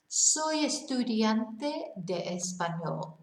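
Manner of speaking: Soy estudiante de español said slowly, syllable by syllable; careful native-style Soy estudiante de español; slow Spanish demo. Shown as a demonstration. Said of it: "these are the things you can say".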